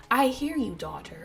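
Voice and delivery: lightly imitated country accent; a hint of a mother's country twang. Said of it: "in her country voice".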